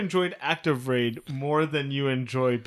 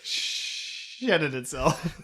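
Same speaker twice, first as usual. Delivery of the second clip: slow drawn-out laughing repeat; much slower than usual. Real, not acted. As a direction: savour the phrase while laughing.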